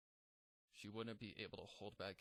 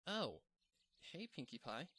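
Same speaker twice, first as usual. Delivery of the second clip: a bright, higher, louder "oh" of happy surprise; surprised but happy; 5 semitones higher, 4 dB louder than usual. Acted. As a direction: greet her friend, caught off guard but glad. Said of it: "surprised but happy to see her friend".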